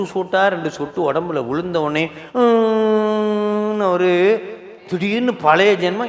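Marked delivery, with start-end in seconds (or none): 2.3-3.9 long drawn-out hum on one raised note; imitated hum. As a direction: hold a closed-mouth "mmm". Imitates child pausing in crying. (நீண்ட ம்ம் என்ற முனகல்)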